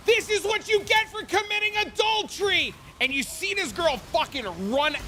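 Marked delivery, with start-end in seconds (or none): 0.1-2.7 chainsaw haunt actor. Retold or imitated. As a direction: play the spooky chainsaw actor taunting her. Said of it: "with the chainsaw, going".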